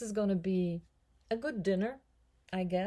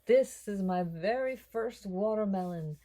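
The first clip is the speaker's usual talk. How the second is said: excited; 6 semitones higher than usual. Real, not acted. Shows her first watermelon.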